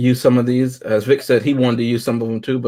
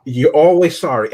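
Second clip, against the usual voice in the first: "You're always sorry" louder, stressing "always", falling hard at the end; dead serious; 3 semitones higher, 5 dB louder than usual. Retold or imitated. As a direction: deliver "You're always sorry" as a cold, flat accusation. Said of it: "dead ass serious when he said it".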